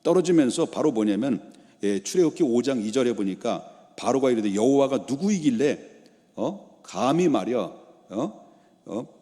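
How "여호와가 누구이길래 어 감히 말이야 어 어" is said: indignant challenge with prodding "huh?"; acted anger. Pharaoh refuses to release Israel, acted irritation. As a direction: play an affronted, irritated ruler. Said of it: "막 화를 내면서".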